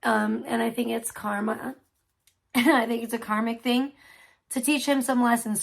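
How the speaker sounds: talking around a sticky Tootsie Roll; words muffled by chewing candy; chewing sticky toffee. Real, not acted. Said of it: "Sorry, I'm choking on my, this damn thing is, like, so stuck to my teeth".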